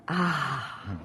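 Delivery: normal talking voice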